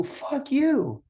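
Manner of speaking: retold fuck you. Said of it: "you go".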